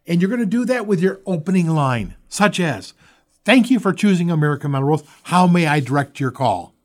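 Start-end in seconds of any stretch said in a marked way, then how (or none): 3.5-6.8 bright, quick receptionist greeting; cheerful phone greeting. Shown as a demonstration. Company rep answering a customer's call, cheerful and quick. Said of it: "in that line is a very cheerful voice".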